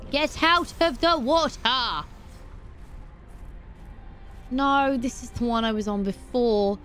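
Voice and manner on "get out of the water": a slow, stretched yell; drawn-out yell. Real, not acted. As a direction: draw the yell out long. Yelling at creature again.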